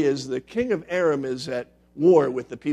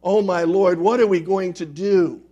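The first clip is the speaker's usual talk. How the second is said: panicked cry; 5 semitones higher, 9 dB louder than usual. Acted. Servant sees the surrounding army.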